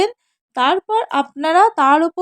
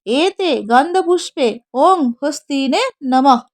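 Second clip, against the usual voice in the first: mantra recitation. Shown as a demonstration. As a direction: intone it like a priest at puja. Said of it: "বলবেন".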